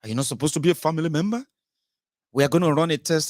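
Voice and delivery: impatient doctor. Retold or imitated.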